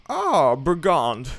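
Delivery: put-on loud, slow furious old woman; angry cry. Grandmother catching the wolf, angry cry. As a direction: shout down the wolf. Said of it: "she cries".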